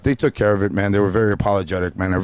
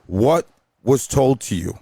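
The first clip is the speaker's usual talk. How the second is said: confrontational; slower than usual. Retold or imitated. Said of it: "she straight up said".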